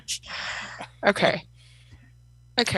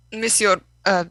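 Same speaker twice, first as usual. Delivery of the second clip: mock French plea. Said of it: "I'll say, um".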